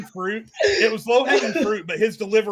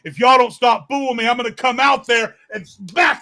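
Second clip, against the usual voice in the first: threatening promo; 3 semitones higher, 4 dB louder than usual. Retold or imitated. Acting out Roman's threat promo.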